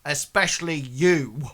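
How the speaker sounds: single them out like a bully guard. Acted. Guard looks at Hengist and singles him out, mildly bullying. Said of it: "Like this".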